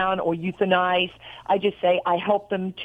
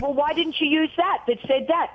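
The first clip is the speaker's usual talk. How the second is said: higher-pitched retold reproach; mock exasperation; 6 semitones higher than usual. Wife retelling her reproach to husband, mock exasperation. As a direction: put the question with playful exasperation.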